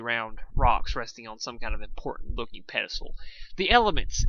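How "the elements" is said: high loud cheer. A narrator's reading. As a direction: cheer on discovery. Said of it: "Everpony cheered".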